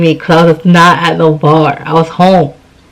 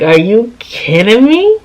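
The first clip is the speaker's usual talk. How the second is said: drawn out, rising sharply at the end; incredulous question, stretched into a rising lilt; retold disbelief; 2 semitones higher than usual. Woman retelling her reaction to being hung up on, incredulous.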